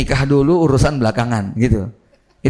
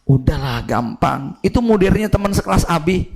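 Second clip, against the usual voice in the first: relaxed dad. Retold or imitated. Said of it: "bapaknya enjoy aja ngomong".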